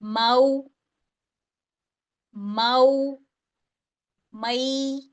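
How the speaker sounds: माऊ and मई glided softly, not lengthened; soft short diphthong. Shown as a demonstration. Teacher showing madd leen gently, no stretching. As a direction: say माऊ and मई gently, at most one count. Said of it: "इनकी pronunciation क्या हो गई".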